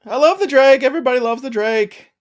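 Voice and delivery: emphatic. Real, not acted. Defending his favourite player.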